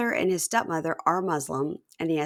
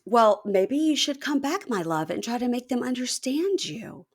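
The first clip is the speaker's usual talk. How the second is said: Nicole; 6 semitones higher than usual. Retold or imitated. Wife coaxing upset husband to come back, mock placating. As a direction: coax him along in a careful singsong. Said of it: "And she goes".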